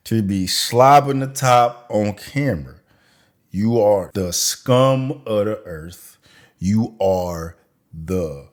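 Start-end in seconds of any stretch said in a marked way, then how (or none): 3.5-8.5 Alfalfa voice. Real, not acted. Roasting a guest in a slow Alfalfa drawl. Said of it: "I sound like Alfalfa from, uh, Little Rascals".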